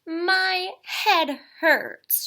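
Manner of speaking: high, very slow moan. Acted. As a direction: whimper it out pitifully. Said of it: "she moaned".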